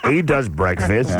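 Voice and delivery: low, slow echo of a put-on American accent; mimicked accent. Host parroting the British caller, mock American accent.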